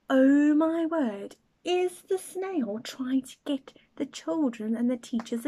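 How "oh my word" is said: slow amazed exclamation. Acted. Astonished reaction.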